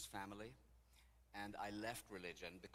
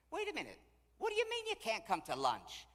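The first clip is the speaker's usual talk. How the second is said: high, loud demand; incredulous challenge; 13 semitones higher, 11 dB louder than usual. Retold or imitated. Golden girl challenging June's lunch excuse, incredulous. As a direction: imitate a pushy friend stopping everything.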